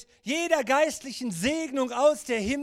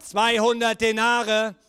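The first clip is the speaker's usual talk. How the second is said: louder repeat; 5 dB louder than usual. Acted.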